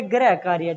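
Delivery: गृह said as "garai", with an ai vowel; children's mispronunciation of गृह. Shown as a demonstration. Teacher imitates how children would read it, गृह as "grai". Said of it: "बच्चे इसको भी बोलेंगे".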